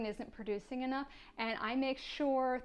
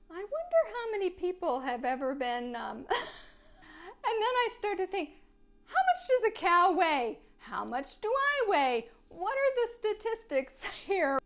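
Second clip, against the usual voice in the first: higher, laughing through the questions; laughing thoughts; 7 semitones higher than usual. Retold or imitated. Wondering about cow weight to viewers, laughing. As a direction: giggle at how absurd it is.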